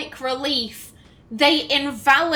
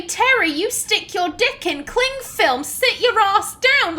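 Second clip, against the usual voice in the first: higher-pitched, exasperated telling-off; mock exasperation; 6 semitones higher than usual. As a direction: scold a foolish friend in disbelief. Acted scolding of stupid friend Terry.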